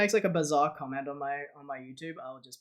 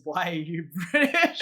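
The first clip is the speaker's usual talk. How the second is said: laughing. Retold or imitated. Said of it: "somebody's comment was just".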